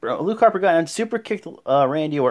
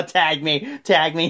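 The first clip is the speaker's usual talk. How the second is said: laughing plea; 2 semitones higher, slower than usual. Retold or imitated. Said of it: "he's like".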